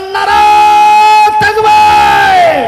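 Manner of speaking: high, loud drawn-out shout. Real, not acted. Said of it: "জোরে বলেন".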